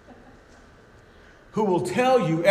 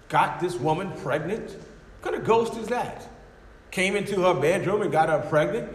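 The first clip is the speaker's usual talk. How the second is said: mocking atheist; 2 semitones higher than usual. Preacher voicing a mocking atheist.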